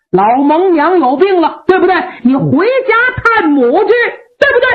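a cocky warrior calling his bluff; brash Meng Liang. Acted. Voices Meng Liang teasing.

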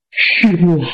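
low, weak reply from a wounded man; weakened by injury. Acted. Wounded general to his master, weakly. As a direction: answer faintly, hurt and low.

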